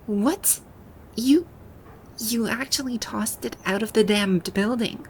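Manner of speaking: indignant, incredulous outburst; outraged disbelief. Acted. Outraged at pillow tossed out.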